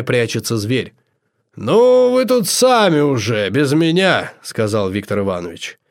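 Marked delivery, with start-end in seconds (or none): 1.6-4.3 high-pitched character voice, loud at the start; high-voiced figure excusing himself; begging off. A narrator's reading. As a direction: back out of the job, starting very high and easing down. Viktor Ivanovich backs out of the fight.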